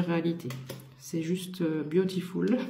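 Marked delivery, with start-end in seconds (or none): 1.8-2.6 a light put-on English accent on "beautiful"; mock English accent. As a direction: say "beautiful" with a jokey English accent, half-hearted. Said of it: "j'ai un super accent anglais".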